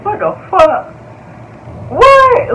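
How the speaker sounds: high, incredulous what the fuck; rising shocked exclamation; shocked disbelief. Retold or imitated. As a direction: squeal it out in disbelief. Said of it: "I'm like".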